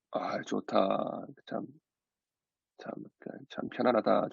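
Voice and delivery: low, soft, slow savoring; contented sigh. Retold or imitated. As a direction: murmur it with relieved pauses, acting out contentment. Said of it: "좀 이렇게 좋아하고 있었는데". (나직하고 느긋하게 만족하는 말투)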